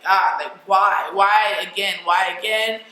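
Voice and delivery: loud, pleading mock wail; retold anguished cry. Woman miscarrying asks God why, retold anguished cry. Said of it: "I'm just crying, I'm screaming".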